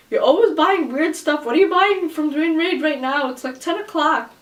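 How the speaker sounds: retold exasperated questioning; mock nagging questions. Husband's questioning phone call retold.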